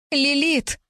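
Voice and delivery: a desperate spirit calling again and again; thundering ghost call. A narrator's reading. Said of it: "не унимался призрак".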